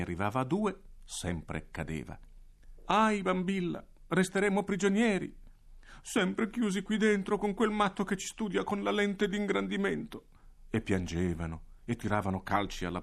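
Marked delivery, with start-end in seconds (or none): 2.8-10.3 acuto e lamentoso, quasi in pianto; si disperano prigionieri; bambini lamentosi. Acted. (i bambini si lamentano con Bambilla, disperati)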